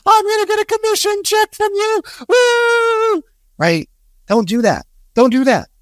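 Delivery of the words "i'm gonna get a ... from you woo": much higher, gushing with fake excitement; squealing, over-the-top sales cheer; overly energetic salesperson. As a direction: ham up the over-eager caller. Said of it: "Are you overly energetic?".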